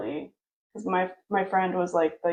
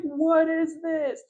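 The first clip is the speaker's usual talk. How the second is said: higher, hurried panic of a pastor; mock panic, caught off guard; imitating a flustered youth pastor's alarm; panicked pastor; 8 semitones higher, 3 dB louder, slower than usual. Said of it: "And he's panicking".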